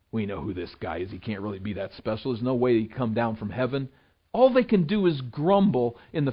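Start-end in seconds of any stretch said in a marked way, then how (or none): 0.1-3.9 quick, softer, dismissive muttering; grumbling crowd. Retold or imitated. Preacher voicing the grumbling crowd, dismissive and quick. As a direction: mimic the crowd grumbling under their breath.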